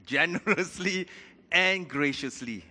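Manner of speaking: "Generously" rings out high and loud, "graciously" slow; emphatic correction. Shown as a demonstration. Preacher correcting the verse, emphatic. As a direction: lift and stretch each word. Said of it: "No, he said".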